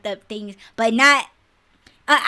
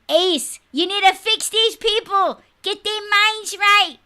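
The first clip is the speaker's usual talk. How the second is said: pleading appeal; 9 semitones higher, 5 dB louder than usual. Real, not acted. Pleading to Ace half-joking.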